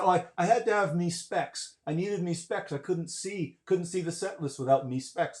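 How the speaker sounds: put-on a light English accent. The drummer explains his glasses, light English accent. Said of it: "in his English, English accent".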